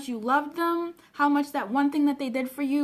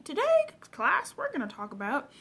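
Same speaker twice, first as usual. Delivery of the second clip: mock teacher. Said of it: "it feels like a teaching session".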